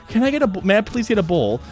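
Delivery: mildly acted courteous request; super duper polite. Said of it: "be super duper polite".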